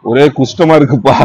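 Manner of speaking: Goundamani line. Retold or imitated. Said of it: "Goundamani sir சொல்ற மாதிரி".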